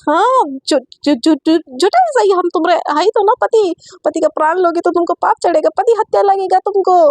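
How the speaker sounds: high, stammering, rushed excuse; flustered stammer. Acted. Satya stammers an excuse to Aisha, high and flustered. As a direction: trip over the words, then rush the lie.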